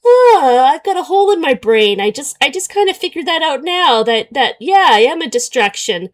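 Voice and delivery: high, loud, dopey mimicry that settles down; mock dimwit. Mocking the character's belated realization, high and dopey. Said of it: "now you're just like".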